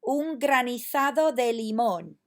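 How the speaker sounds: granizado with a lisped z, as graniθado; teacher modelling Castilian granizado; model Spanish. Shown as a demonstration. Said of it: "Y ahora".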